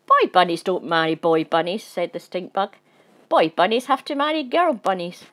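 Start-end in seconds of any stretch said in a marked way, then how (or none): 0.1-1.8 stern bug. Acted. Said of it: "the scary voice". 3.3-5.2 stern bug. Acted. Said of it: "the scary voice".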